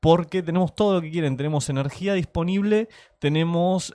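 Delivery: imitating a cheto upper-class Argentine accent; posh argentine spanish. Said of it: "Me encanta la imitación del tono de Cheto".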